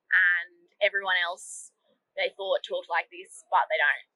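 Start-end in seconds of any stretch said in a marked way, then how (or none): 2.6-3.4 slow mock-Aussie accent; imitated broad Australian accent; strong Australian accent. Shown as a demonstration. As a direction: lay the Australian accent on slowly. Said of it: "really strong Australian accent".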